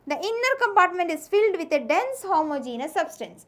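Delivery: slow, deliberate textbook dictation; teacher dictating notes slowly. Shown as a demonstration. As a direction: read it out word by word for notes.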